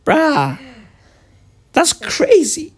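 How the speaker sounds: the husband imitates his wife whispering; mock whisper. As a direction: imitate her whispering it's crazy. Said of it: "She goes".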